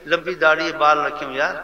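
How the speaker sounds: loud mock description; mocking gossip. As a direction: belittle him like a gossiping crowd. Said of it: "ایسے بولتے ہیں۔".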